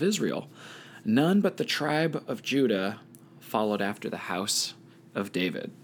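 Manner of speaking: measured Bible read-aloud with lifted phrase openings; scripture reading. A narrator's reading. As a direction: read the passage aloud to a study group. Reads Bible passage aloud.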